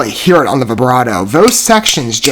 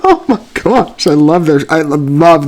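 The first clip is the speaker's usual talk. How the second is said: laughing gush; slower than usual. Real, not acted. Gushing over the band.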